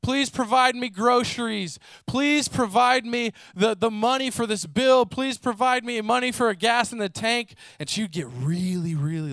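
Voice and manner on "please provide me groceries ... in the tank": pleading prayer. Retold or imitated. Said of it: "consistently cry out to the Lord".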